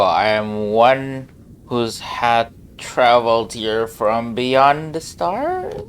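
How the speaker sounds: slow, lofty self-introduction; grand slow declaration. Pretend. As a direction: announce yourself like a mysterious stranger.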